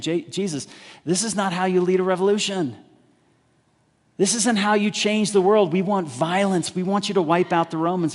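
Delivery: frustrated crowd. Retold or imitated. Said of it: "the people become really frustrated".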